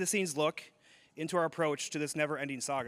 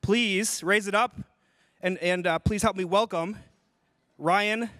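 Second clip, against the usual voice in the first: announcer welcome; 3 semitones higher, 5 dB louder than usual. Real, not acted. Toast and welcome to stage.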